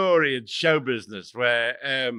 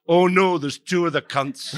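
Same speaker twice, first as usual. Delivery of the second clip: a weak Scottish heckler, louder start; bad Scottish accent; 3 semitones higher, 4 dB louder than usual. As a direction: call it from the stalls in a half-hearted Scottish accent. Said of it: "do a very good Scottish accent".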